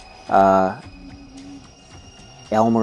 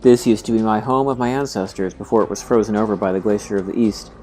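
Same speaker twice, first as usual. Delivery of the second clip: voiced character dialogue. Reading Cedric's dialogue aloud.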